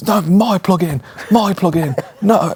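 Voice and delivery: high, whiny mock protest; mock nerdy squabble. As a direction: squeak it like a fussy producer. Mocking bandmates arguing over plugins.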